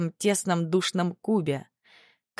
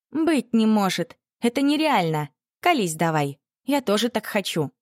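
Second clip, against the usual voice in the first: can't believe it, begging; excited disbelief; 5 semitones higher than usual. A narrator's reading.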